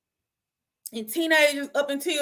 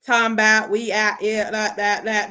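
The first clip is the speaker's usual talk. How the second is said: imitated Florida accent; 4 semitones lower than usual. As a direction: imitate Florida talk with a dragging tongue. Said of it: "sound like they dragging their tongue".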